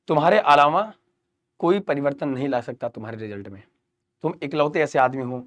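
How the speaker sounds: low, softened, earnest appeal; earnest motivation. Real, not acted. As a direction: drop low and quiet to make it sink in. छात्र को अकेले में समझाना. (धीमे स्वर में गंभीर प्रेरणा)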